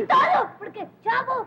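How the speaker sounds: put-on high, tearful childish outcry; hammed-up high wail; wailing complaint. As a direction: bawl the blame at a playmate. Daughter wailing her complaint.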